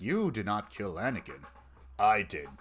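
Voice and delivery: lightly imitated villain voice; Vader. Co-host poking fun at the villain's line, lightly imitated. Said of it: "when he was saying, like".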